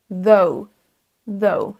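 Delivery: THOUGH with O gliding into OU; diphtongue. Shown as a demonstration. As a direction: glide from O to OU in THOUGH. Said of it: "On a un son O et U". (THOUGH avec un son double)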